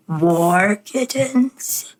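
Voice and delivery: drawn-out hopeful servant; hunchback assistant. Retold or imitated. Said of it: "And the assistant's like".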